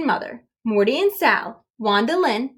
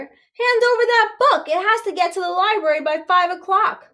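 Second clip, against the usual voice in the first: high, urgent call; 9 semitones higher than usual. A narrator's reading. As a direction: press him to hurry. Scout leader urging Duff.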